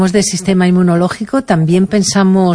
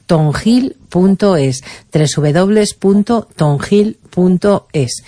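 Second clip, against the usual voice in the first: slow dictation; slower than usual. Shown as a demonstration. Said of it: "web address for listeners".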